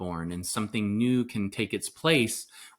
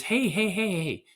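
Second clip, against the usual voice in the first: high, repeated mock hello; friendly greeting; 8 semitones higher than usual. Imitating locals who connect before business, high friendly greeting. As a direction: call out a string of high hellos.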